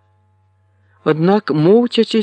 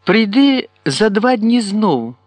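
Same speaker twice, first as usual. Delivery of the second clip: called out; 5 semitones higher, slower than usual. A narrator's reading. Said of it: "кликнула".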